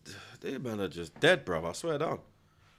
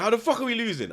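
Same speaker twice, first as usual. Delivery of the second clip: imitating angry manager; 12 semitones higher, 5 dB louder, faster than usual. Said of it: "He's like".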